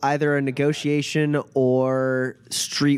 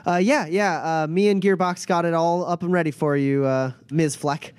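Lucius piping up; 4 semitones higher than usual. Acted. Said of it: "Lucius pipes up".

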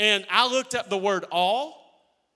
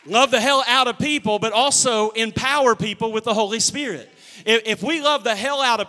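emphatic preaching; 6 dB louder than usual. Real, not acted. Preacher drives home his point.

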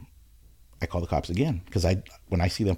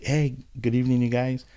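polite, eager hello with hands raised; friendly greeting to cops; 4 semitones higher than usual. Retold or imitated. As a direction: greet the officers cheerfully. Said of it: "like, like".

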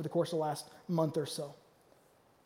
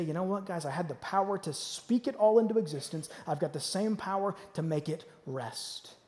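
calm reassurance; 3 semitones lower, 4 dB quieter than usual. Retold or imitated. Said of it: "As if to say".

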